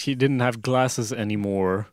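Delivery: slow, deadpan quote of the line; mock quoting. Friend quotes the fanfic line, deadpan and slow. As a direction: savour the silly line slowly. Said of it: "Jag älskar att hon säger".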